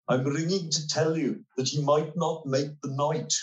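a hint of an office worker delivering news; hospital official's voice. Hospital clerk warns wife about her husband, lightly imitated official voice. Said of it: "am I going to do my voice".

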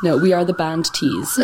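"band tees" pronounced as two careful, distinct words; over-enunciated. Retold or imitated. Host joining in as the careful bandmates, over-enunciated "band tees". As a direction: joke along, spelling out "band tees" with care. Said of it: "over enunciating".

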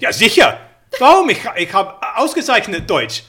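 loud, high German bluster; mock German. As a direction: boast in overdone German. Hammy mock German boast.

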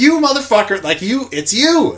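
hammed-up rage at the agent; mock outburst. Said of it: "I don't go like".

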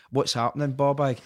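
lightly voiced kid calling out a greeting; a hint of a cheeky wee boy shouting across the street; kid's voice. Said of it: "like a kid's voice".

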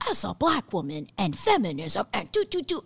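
preachy monologue. Acted.

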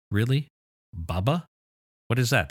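exasperated disbelief; incredulous. Real, not acted. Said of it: "which drives me crazy".

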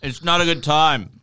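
unvoiced whisper. Real, not acted. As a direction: whisper it as a joke. Whispered answer to the pay raise.

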